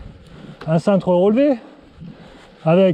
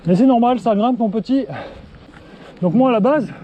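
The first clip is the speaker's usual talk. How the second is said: out of breath; 2 semitones higher than usual. Real, not acted. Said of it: "tu m'entends souffler".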